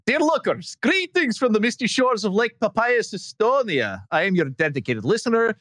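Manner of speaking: lightly put-on Estonian accent, laughing through it; bad Estonian accent. Host reading an Estonian fan's email in a mock Estonian accent. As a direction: read the fan letter in a half-hearted Estonian accent. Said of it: "with my worst Estonian accent".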